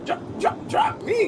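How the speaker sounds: high, pleading cry. Acted. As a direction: beg to be put down. Pleading to be dropped.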